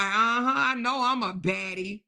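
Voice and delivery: lightly voiced preening diva; imitating Courtney. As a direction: play the self-satisfied baddie lightly. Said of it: "Look how she hold her stomach like".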